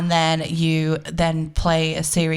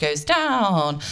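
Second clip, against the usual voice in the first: falling pitch. Shown as a demonstration. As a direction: slide the voice downward on "down".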